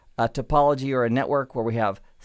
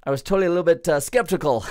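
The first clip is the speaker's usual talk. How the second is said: voiced commenter. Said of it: "again, my voice, not theirs".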